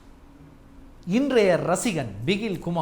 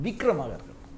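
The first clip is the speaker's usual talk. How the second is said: normal talking voice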